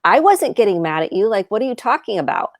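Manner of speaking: mildly indignant, imitating her own shame; defensive denial. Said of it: "going into shame and going".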